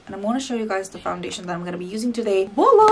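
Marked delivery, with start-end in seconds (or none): 2.5-2.9 big bright high-pitched Voila; ta-da reveal, loud and high; excited reveal. Real, not acted. Reveals the foundation.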